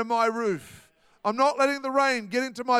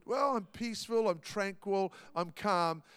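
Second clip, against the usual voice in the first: mock placid voice; 4 semitones lower, 7 dB quieter than usual. Mocking passive idea of peace.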